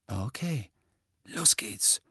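hushed, conspiratorial go signal; whisper. A narrator's reading. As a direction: whisper it to your fellow eavesdroppers. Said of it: "flüsterte Fred". (geflüstert, verschwörerisch)

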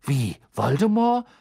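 thoughtless. Acted. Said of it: "sagte Harry unbedacht".

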